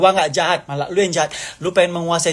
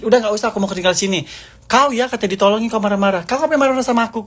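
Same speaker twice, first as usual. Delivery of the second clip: rising, higher irritated retort; retold annoyed reply; 6 semitones higher than usual. Retelling how she snapped back on the phone, mildly angry. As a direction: snap back at the caller, getting higher. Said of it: "Aku bilang gitu".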